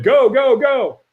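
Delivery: high, urgent mock yell; imitated trainer's shout. Trainer sending the walker onto the coals, urgent shout. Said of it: "he screamed at me".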